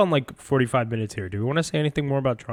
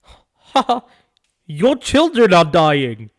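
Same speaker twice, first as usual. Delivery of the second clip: high, drawn-out British taunt; mock British accent; 4 semitones higher, 6 dB louder, much slower than usual. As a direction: gloat loudly as a caricatured Brit. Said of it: "And then they'll be like".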